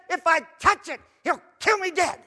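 high, loud, excited Eve; Eve's fearful voice. Acted. Eve telling the serpent, high and loud. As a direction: gush it out high and breathless. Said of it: "he said".

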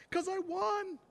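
very high mock-tearful voice; imitated crying camper. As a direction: pitch it way up like an upset kid. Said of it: "he was crying".

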